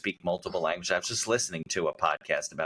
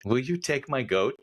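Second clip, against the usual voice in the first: slow, higher mock stranger asking; mock foreign woman; 7 semitones higher than usual. Woman on a Peru bus offering her goat, mock slow and higher. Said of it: "in some other language".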